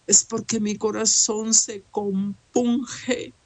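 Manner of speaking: a real catch of tears in the voice; tearful. Real, not acted. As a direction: let the sorrow break through gently. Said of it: "yo con lloro". (con llanto real y contenido)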